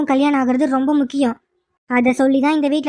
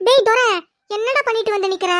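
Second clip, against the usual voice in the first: shocked outburst; 4 semitones higher than usual. Acted. Mother horrified at her son's car bomb, shocked outburst. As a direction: explode in disbelief at what he did.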